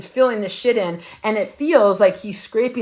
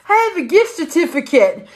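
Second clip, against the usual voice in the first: mock sweet; 8 semitones higher, 3 dB louder than usual. Herself to tattoo artist.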